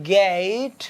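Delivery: गेट drawn out as "gay-eet"; gliding vowel. Shown as a demonstration. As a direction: glide slowly from A into E inside गेट. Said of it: "ए की sound भी है और ई की sound भी". (गेट में ए से ई तक खिंची आवाज़)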